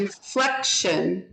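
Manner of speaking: slow INFLECTION, leaning on FLEC; stress on second syllable. Shown as a demonstration. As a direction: say INFLECTION slowly so the middle syllable stands out. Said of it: "Which syllable?".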